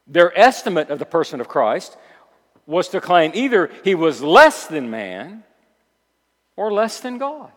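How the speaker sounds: forceful preaching. Acted.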